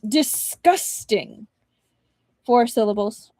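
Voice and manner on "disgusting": slowly dragged out in revulsion; drawn-out disgust. Acted. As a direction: stretch the word out with disgust. Three syllables.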